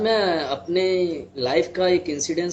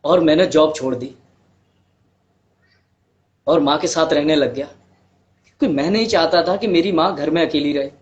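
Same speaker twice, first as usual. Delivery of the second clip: measured storytelling with long pauses; understated monologue, pausing heavily between sentences; dramatic monologue; 3 dB louder than usual. Acted. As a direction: recount a hard life story in earnest, phrase by phrase.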